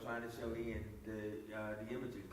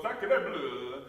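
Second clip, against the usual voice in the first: mock French exclamation, a bit louder; French accent; 7 dB louder than usual. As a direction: blurt it like a cartoon Frenchman. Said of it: "and they would go".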